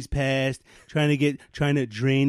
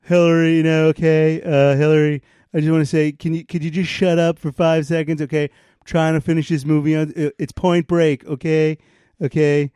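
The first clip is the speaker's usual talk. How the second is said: Bill Clinton impression; 4 semitones higher than usual. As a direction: play Bill complaining to Hillary from the couch. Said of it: "Here's my impression of Bill Clinton".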